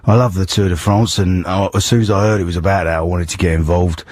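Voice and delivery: lightly voiced London tough-guy act through a croaky cold; a hint of a Cockney film hard man; Ray Winstone. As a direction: pretend to be a gruff Cockney actor. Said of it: "Ray Winston".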